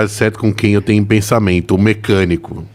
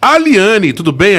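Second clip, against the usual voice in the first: excited greeting; 10 semitones higher, 4 dB louder, slower than usual. Real, not acted. Host greets caller warmly.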